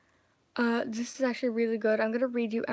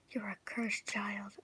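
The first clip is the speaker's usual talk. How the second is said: slow eerie whisper; 7 dB quieter than usual. Acted. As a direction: whisper it slowly and eerily. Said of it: "a voice in my head whispered".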